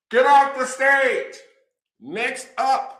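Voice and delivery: high, slow playful heckle at the comic; mock heckling. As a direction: boo the comic off stage, laughing along. Domino players heckle comic.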